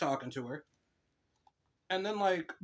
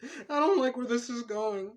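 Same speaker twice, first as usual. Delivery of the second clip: slow, higher, uneasy aside; 9 semitones higher, 5 dB louder, slower than usual. Real, not acted. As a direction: pull back, slowly, from the joke. Reacts to a weird story.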